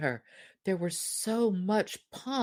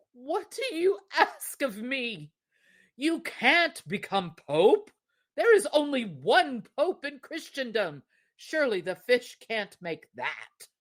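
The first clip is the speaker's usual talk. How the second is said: pleading husband; 6 semitones higher than usual. Acted.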